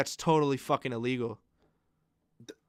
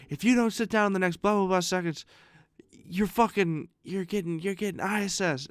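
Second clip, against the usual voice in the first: mock teacher threat; 6 semitones higher than usual. Teacher threatening students with detention.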